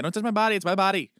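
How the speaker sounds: put-on high, cranky baby voice. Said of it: "the baby was like".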